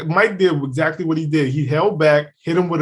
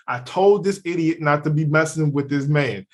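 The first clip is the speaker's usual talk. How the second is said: told-you-so filming; 2 semitones higher than usual. Retold or imitated. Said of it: "you're gonna hear me go".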